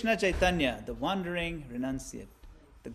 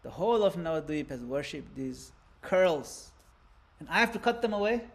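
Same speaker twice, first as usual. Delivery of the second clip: distraught barber; 3 semitones higher than usual. Acted. Barber refusing to shave the young saint, anguished plea. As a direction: beg not to be made to cut it. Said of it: "He says".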